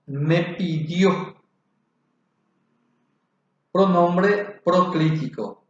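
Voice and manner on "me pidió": slow example reading; example word. Shown as a demonstration. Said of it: "Como ejemplo tenemos".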